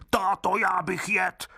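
put-on very high little-child voice, slow and demanding; a hungry wooden baby whining for food; greedy child crying out. A narrator's reading. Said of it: "otvírá hubu a křičí".

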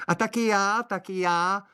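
very high tiny chiming-in voice; high little girl joining in; little girl's voice. Acted. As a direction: squeak it in like a small girl. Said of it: "dodalo děvče".

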